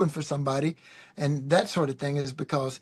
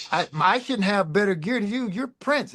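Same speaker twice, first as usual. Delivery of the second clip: cheeky teasing; 4 semitones higher than usual. Retold or imitated. Teasing Prince about gear.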